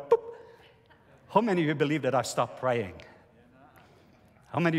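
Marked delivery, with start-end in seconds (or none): 0.1-0.2 comic boop. Retold or imitated. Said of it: "My faith level went".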